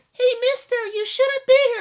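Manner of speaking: put-on very high, sweet, cute little girl voice. Retelling what ghosts say to a screaming man, in a cute little girl voice. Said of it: "just these cute little girl voices".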